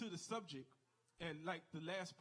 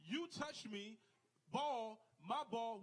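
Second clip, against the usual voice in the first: insistent foul call; 3 semitones higher, 3 dB louder, slower than usual. Retold or imitated. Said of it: "He said".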